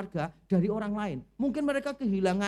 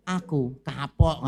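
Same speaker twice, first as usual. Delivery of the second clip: mock fed-up reply; 7 semitones lower, 5 dB louder, much slower than usual. The cook answers the complainer.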